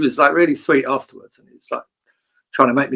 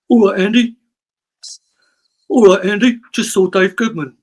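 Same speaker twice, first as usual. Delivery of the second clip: higher and louder, a chirpy greeting; Glenn Matlock impression; 7 semitones higher, 4 dB louder than usual. Greeting Andy on a podcast, higher and louder. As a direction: throw a bright, loud hello at Andy. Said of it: "I'll do an impression of Glenn Matlock".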